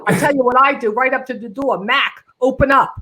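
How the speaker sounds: lightly voiced dad from a one-person show; garbage man dad. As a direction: play the griping garbage man father. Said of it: "whenever I would become, uh, dad".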